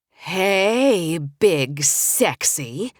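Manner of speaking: slow, drawn-out forced cheer on Big Sexy; greeting a grumpy friend on the phone with forced enthusiasm. Acted. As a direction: muster every bit of pep you can, stretching it out. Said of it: "with as much enthusiasm as I could muster".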